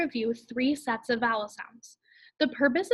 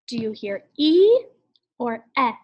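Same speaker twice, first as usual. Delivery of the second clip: teacher's question; 6 dB louder than usual. Shown as a demonstration. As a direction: call out the question to the class. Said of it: "teacher asks class".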